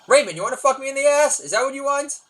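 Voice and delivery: high, loud confrontational yell. Retold or imitated. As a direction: shout it as an aggressive challenge. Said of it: "Starts yelling at Raymond".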